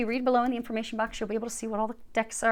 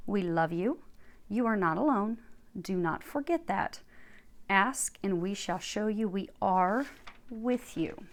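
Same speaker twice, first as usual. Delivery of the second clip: channeled message reading. Acted. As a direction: read it like a calm oracle. Reads channeled archangel message.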